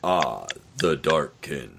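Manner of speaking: very deep, low put-on spooky voice. Taking the first turn when everyone is asked for a scary impersonation: scary impersonation. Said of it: "give your best Scary impersonation".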